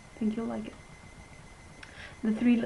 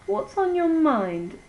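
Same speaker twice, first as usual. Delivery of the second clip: Riding Hood voice; 8 semitones higher, slower than usual. Acted. Red Riding Hood replies.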